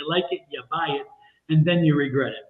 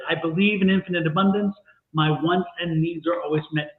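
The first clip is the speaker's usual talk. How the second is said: affirmation read. Shown as a demonstration. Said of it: "This is it".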